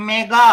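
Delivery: "మెగా" repeated firmly, long final aa; model pronunciation. Shown as a demonstration. Teacher repeating the prefix for students, "మెగా" clearly sounded out. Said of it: "మెగా అని పలకాలి దీన్ని".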